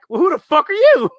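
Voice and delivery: high, loud hammed-up retort; mock villain comeback. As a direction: throw the question right back. Second villain fires back.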